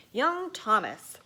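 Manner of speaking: slow, loud stern call of his name; a touch of a fuming schoolmaster; fuming teacher. Acted. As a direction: bite it out with restrained anger. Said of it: "fumed Teacher Douglas".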